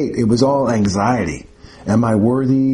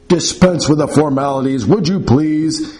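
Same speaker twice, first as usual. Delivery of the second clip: barked order; 3 semitones higher than usual. Acted. Bedridden professor barking at the nurse to skip formalities. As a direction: bark it out with lofty disdain. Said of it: "he barked".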